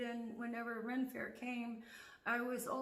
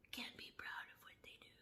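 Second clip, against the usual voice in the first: whisper; 4 semitones lower, 8 dB quieter than usual. Real, not acted. Whispering jabs at the neighbors. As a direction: hiss it low and mocking.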